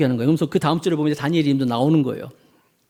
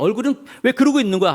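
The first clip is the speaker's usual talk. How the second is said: scolding mother; 5 semitones higher than usual. Retold or imitated. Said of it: "야단을 치는 거예요".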